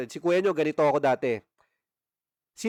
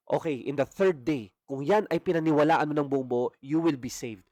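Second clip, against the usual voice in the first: scripture reading. Acted. Reads scripture aloud.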